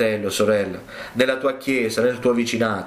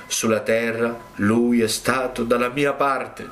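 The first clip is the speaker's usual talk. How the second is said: sweetest voice. Acted. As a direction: speak gently, lightly voicing Jesus. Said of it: "la voce più dolce che io abbia mai udito".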